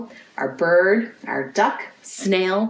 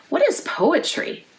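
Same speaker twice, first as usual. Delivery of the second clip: lightly voiced boy, much higher question; curious boy; 10 semitones higher than usual. A narrator's reading. Daniel reading the park sign, asking with a higher wondering voice. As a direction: ask it like a puzzled little boy. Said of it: "Daniel says".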